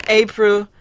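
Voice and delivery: high, sing-song self-reproach; mock remorse. Attacker mocks the captives to her accomplice April, mock remorse. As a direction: pretend to be ashamed, pitched high.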